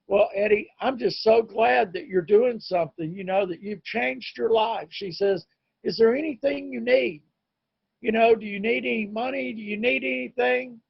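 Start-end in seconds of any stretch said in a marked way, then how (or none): 0.1-4.9 higher-pitched, glad and supportive; retold ex-wife. Ex-wife answering his amends, lightly imitated as glad and supportive. Ex-wife's kind reply retold. 5.8-10.8 higher, softening voice offering help; retold ex-wife. Ex-wife offering money to him, lightly imitated in higher concern.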